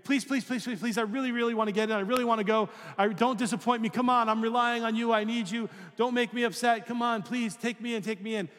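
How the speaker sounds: high, pleading mock beggar; a stranger begs to be let in, hammed-up pleading; begging. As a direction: plead like a desperate stranger, stretching out "take me in". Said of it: "begging you".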